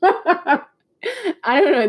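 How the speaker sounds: high, slow, through laughter; laughing. Real, not acted. Vlogger amused by her own story, laughing as she speaks. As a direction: crack up while trying to talk.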